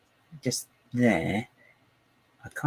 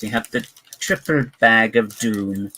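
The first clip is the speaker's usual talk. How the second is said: evil genius voice; 4 dB louder than usual. Pretend. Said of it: "Don't know where that voice came from".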